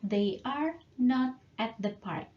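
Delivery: "not" said plainly and clearly, slow and deliberate; slow it down so students catch "not"; slow, clear model. Shown as a demonstration. Teacher models the negative sentence slowly for students. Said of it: "tambahkan not saja setelah to be".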